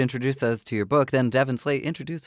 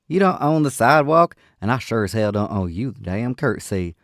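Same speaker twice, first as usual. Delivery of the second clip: shouting; 5 dB louder than usual. Acted. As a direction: throw it back at him, unafraid. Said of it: "the young woman was shouting".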